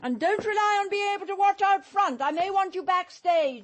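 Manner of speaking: sharp order. Acted.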